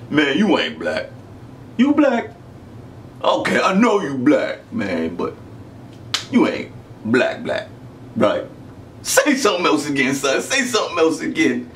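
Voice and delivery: imitated Philadelphia guy's American accent. Host challenges the customer's authenticity, imitated American accent. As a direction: mimic a sceptical American, testing the other man. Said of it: "try and get his accent correct".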